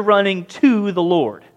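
TO leaned on in a slow phrase; deliberate, emphatic TO; stress on TO. Real, not acted. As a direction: stretch the line and land on TO. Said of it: "I emphasize those words".

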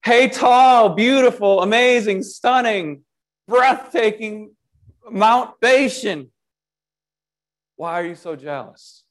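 preacher voicing David teasing the mountain with over-the-top flattery; mock flattery. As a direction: lay the praise on thick, tongue in cheek. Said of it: "things get really sarcastic".

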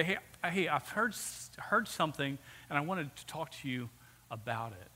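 gentle approach, softening and dropping at the end; caring. Acted. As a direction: broach it softly, as a concerned friend. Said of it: "It's caring".

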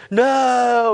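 lightly imitated chorus of kids; drawn-out mock kids' protest; a hint of middle schoolers answering together; kids' chorus reply.

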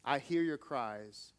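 soft, slow mother's voice from the grave; whispered. A narrator's reading. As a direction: hush it like a mother consoling her son. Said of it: "she whispered and said".

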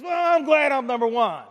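gentle Jesus. Retold or imitated. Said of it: "He goes".

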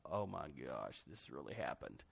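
low, soft stunned whisper of awe; awed hush. Retold or imitated. Disciples bowing before Jesus, hushed and awed. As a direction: breathe it in disbelief. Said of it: "got down before him like".

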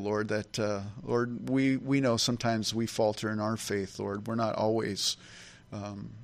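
earnest pastor's prayer voice; closing prayer. Acted. Pastor leading the congregation in closing prayer, earnest prayer voice. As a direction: pray over the congregation, steady and sincere.

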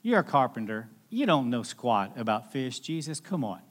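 a tired fisherman scoffing at a carpenter; skeptical grumble. Retold or imitated. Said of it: "He's thinking".

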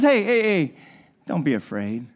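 Jesus calming the kneeling Peter; tender reassurance. Retold or imitated. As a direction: soothe someone crying on the floor. Jesus comforting man on his knees.

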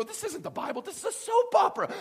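high, loud scandalised exclaim; incredulous outcry. Retold or imitated. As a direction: cry out like the book betrayed you. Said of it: "You're reading this, you go".

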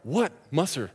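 high, loud, panicky calls; frantic yelling. Retold or imitated. Marine on the logjam shouting to his friends about his cooler, high and panicky. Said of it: "He's like".

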